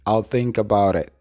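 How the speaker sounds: "I'll think about it" with tapped T; teacher models "I'll think about it" joined up; linked model pronunciation. Shown as a demonstration. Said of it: "la oración completa se pronuncia". ("I'll think about it" enlazado, T como R suave)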